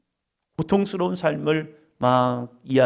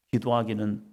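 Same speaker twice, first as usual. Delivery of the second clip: normal talking voice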